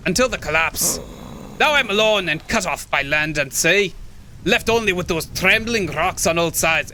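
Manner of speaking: put-on amateur Scottish old man; imperfect stage Scottish; bad Scottish accent. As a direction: tell the hermit's story in a rough Scottish accent. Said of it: "My Scottish accent sucks".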